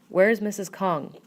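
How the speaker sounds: slow, loud gruff question; a touch of gruffness, drawn out. A narrator's reading. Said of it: "but his tone is gruff".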